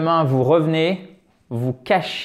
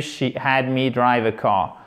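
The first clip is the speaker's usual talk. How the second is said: American English; 3 semitones lower, slower than usual. Shown as a demonstration. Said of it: "American English".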